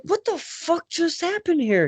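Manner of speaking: high-pitched incredulous question; mock bewildered outcry; retold disbelief. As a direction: act out being baffled, voice jumping way up. Acted quote of own disbelief.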